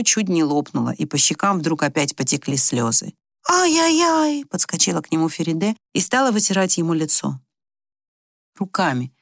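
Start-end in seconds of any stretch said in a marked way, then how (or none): 3.5-4.4 high, fussing ай-яй-яй; tutting woman. Acted. Feride rushes to wipe his tears, high fussing. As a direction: cluck over him like a mother.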